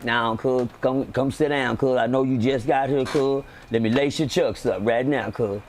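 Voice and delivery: low impression of an old friend; Drico. Greeting a newcomer in the prison kitchen, imitated friend's low voice. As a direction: drop the pitch and play your homie. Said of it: "I gotta do my Drico voice".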